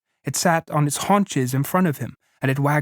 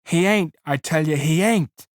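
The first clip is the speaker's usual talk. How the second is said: desperate denial; 3 semitones higher than usual. Acted. Lenny covering ears.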